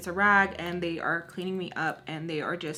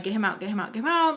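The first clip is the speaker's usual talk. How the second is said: retold panicked repetition; urgent plea; 3 semitones higher, 5 dB louder, much faster than usual. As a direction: beg for help, climbing at the end.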